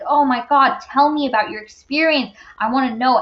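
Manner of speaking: retold effusive welcome, lifted voice; warm, inviting greeting. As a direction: draw them in with eager warmth. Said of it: "he's so warm and inviting".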